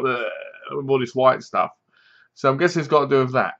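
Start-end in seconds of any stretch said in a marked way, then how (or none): 0.0-0.8 quiet mock gag; imitated choking. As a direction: mimic someone coughing something up. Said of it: "they start coughing and go".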